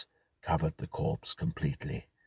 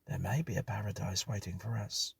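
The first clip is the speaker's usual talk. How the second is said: higher, softer, half-whispered; hushed tone; 5 semitones higher, 3 dB quieter than usual. Acted. Hughes to the others after the ghost, hushed. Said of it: "Hughes spoke in a hushed tone".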